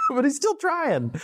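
high, slow words through laughter; giggling at Satan's persistence; laughing. Real, not acted. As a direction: still laughing as you say it.

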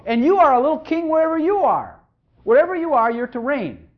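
preacher crowning his listeners; fervent proclamation. Real, not acted. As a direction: proclaim it to the congregation. Preaching climax.

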